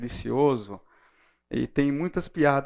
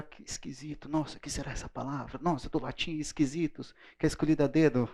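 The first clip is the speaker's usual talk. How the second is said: quiet musing; 8 dB quieter than usual. Pretend. Future reader puzzling over word.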